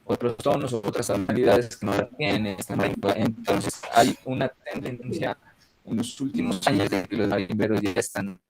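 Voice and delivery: choppy, robotic internet audio; glitchy connection breaking up the voice; half robot voice. Real, not acted. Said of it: "sí suena robótico". (voz robótica entrecortada)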